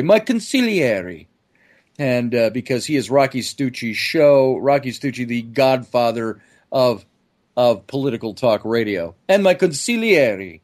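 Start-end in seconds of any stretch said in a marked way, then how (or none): 0.0-1.3 drawn-out, higher-pitched grand introduction; co-host's announcing. Retold or imitated. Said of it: "or as he would say". 9.3-10.6 mock-grand announcement, higher and drawn out; imitated announcer. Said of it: "That's how he always announces me".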